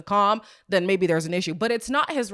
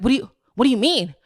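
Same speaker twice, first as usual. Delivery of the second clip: mock frantic protest; 6 dB louder than usual. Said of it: "she cannot cope".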